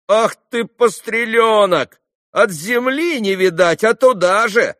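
high, drawn-out market-woman scolding; loud scolding. A narrator's reading. Trader telling off a cheeky small boy, loudly scolding. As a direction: scold a little rascal at full voice.

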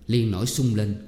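usual speaking voice

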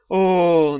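loud disguised yawn as a moan; hyper-passionate oh. A narrator's reading. Daf faking a giant passionate oh. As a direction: blow it up into a huge moan. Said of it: "гиперстрастное".

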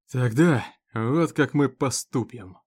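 slow, measured and composed; steady yourself and speak slowly; the sheriff takes control with a slow calm voice; calmer. Acted. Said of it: "чуть спокойнее заговорил он".

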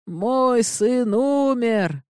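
протяжно, выше, почти сквозь рыдания; тянет слова, будто срывается в слёзы; надрывный плач. A narrator's reading. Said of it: "Его сотрясали рыдания". (граф в отчаянии о сыне, рыдающим голосом)

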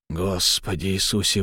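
exhaled in shock; breathed out. Acted. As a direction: breathe the words out, stunned. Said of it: "выдохнул Чень".

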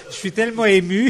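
words pushed out on a burp. Real, not acted. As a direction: say it while burping. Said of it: "t'as qu'à roter dans le micro".

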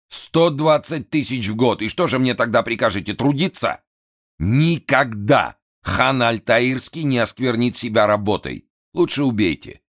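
высокий взвинченный голос хана; капризный напуганный вельможа; нервный хан. A narrator's reading. (взвинченный голос хана)

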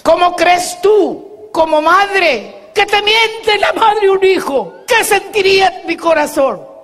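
high, slow, emphatic reproach; wounded indignation. Retold or imitated. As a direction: draw out each question, pitched high. Mother confronted by defiant, cursing son.

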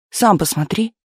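mildly testy retort; snapping back. A narrator's reading. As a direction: snap it back curtly. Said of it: "огрызнулся заведующий труппой".

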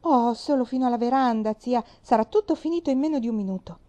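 a bit out of breath. A narrator's reading. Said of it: "con il fiato un po' corto".

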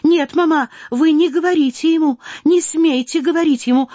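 put-on an eager girl begging her mother not to; young Natasha. Natasha voiced, pleading daughter.

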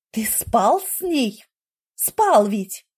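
jealous wife demands the truth; furious shout. A narrator's reading. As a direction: fling the accusation at him. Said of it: "яростно выкрикнула Роксана".

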